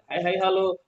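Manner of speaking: quick crowd-reply chant; yel-yel response. Shown as a demonstration. Participants answering the trainer, chanted reply. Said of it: "kita juga bisa gunakan yel-yel".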